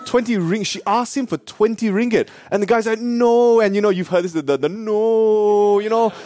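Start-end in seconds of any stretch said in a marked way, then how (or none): 3.0-3.6 protesting vendor. Retold or imitated. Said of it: "all the excuses started coming out". 4.7-6.1 higher-pitched mock protest, listing every hardship; imitated sing-song string of excuses; excuse-making vendor. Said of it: "all the excuses started coming out".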